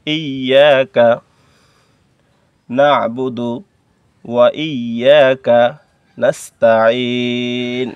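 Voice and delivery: slow, drawn-out chanting of the verse; measured tajweed recitation; slow Quran recitation. Shown as a demonstration. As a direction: recite it slowly, stretching each word. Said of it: "recites the verse slowly for learners".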